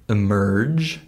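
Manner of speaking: "emerge" with a short, unstressed first vowel; schwa for E. Shown as a demonstration. Teacher giving an example word, unstressed first syllable in "emerge". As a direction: keep the opening E of "emerge" weak, stress "merge". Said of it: "becomes the same schwa sound".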